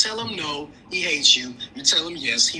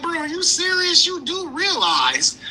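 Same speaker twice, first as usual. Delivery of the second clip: incredulous retort; 5 semitones higher than usual. Retold or imitated. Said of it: "I'm like".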